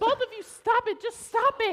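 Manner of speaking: sharp yelled order to quit fighting; yelling to stop. Acted. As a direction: shout them both down. Breaking up a fight.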